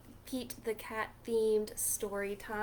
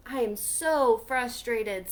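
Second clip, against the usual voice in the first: louder, mock frustrated complaint; frustrated turtle; 7 dB louder than usual. Turtle complaining to Pete, hammed-up frustration. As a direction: grumble it loudly. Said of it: "said Turtle".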